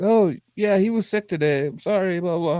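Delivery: imitating own unbroken voice, pitched high; boy posing as a parent, high-pitched; high, put-on kid voice on the phone. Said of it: "I still had a high-pitched voice".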